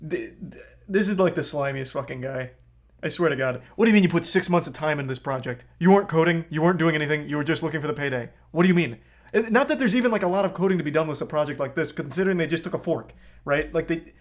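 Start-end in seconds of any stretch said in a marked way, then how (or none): 3.8-10.4 heated rant. Real, not acted. Streamer ranting at the founder, getting heated. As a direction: let the frustration boil over at him. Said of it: "I'm getting heated".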